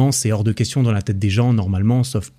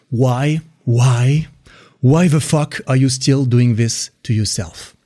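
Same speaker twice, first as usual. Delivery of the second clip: exasperated inner voice; much slower than usual. Acted. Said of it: "je vais citer quelques passages du livre".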